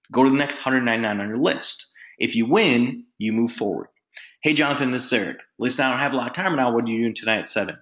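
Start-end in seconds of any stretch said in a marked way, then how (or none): 4.4-7.8 brisk, rattled-off invite; in a hurry. Shown as a demonstration. Caller asking Jonathan about tonight, hurried. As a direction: speed through it like a busy caller. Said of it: "be in a hurry".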